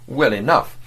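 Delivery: mildly contemptuous, condescending; a touch of scorn toward the agent. Acted. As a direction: look down on him with the words. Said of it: "he said contemptuously".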